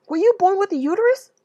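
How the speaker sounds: mock challenge. Repeating her own retort.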